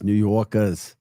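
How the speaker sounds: dropped r's, New York style; New York accent. Retold or imitated. Host describing his New Yorker friends, New York accent. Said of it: "Megan's a New Yorker".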